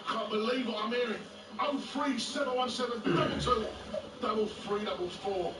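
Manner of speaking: hammed-up radio host intro over music; Jamie O'Hara impression. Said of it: "do a sports bar impression".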